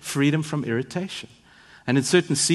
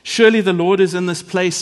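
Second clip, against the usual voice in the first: quoted cry of wonder, raised and loud; 4 semitones higher, 8 dB louder than usual. Retold or imitated. Preacher retelling Jacob's vision of God, crying out in wonder. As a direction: lift it loudly, retelling an awed outcry. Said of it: "he cried out in wonder".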